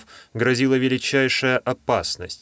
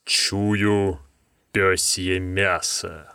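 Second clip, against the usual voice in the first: monster voice; 3 semitones lower, much slower than usual. Acted. Monster sniffing for prey.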